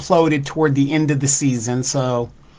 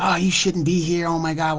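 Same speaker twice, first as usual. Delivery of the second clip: lightly mimicked flatterers, a little higher; ego-feeding people; 3 semitones higher than usual. People feeding his ego at work, light higher-pitched mimicry. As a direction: lightly put on a higher fawning voice. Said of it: "They wanna feed your ego".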